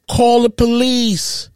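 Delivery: high, drawn-out retold call for help; mock distressed yell. Father imitating the ex-wife calling out in the gym, mock yell. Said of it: "the ex-wife yells in the gym".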